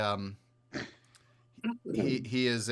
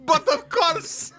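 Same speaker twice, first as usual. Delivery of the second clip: slow, much higher and louder mock-suave "But of course"; drawn-out hammy "But of course", savouring the words; Sidney Greenstreet impression; 11 dB louder, slower than usual. GM mocking the player's accent with a slow, hammy suave voice. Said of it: "it's Sidney Greenstreet".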